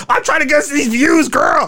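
high, loud sassy influencer voice; sassy vlogger squeal; sassy YouTuber. Retold or imitated. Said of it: "and like".

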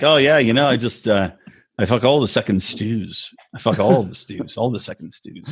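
a hint of a British-accented Pete. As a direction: play Pete as a smug Brit, low. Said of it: "he's like".

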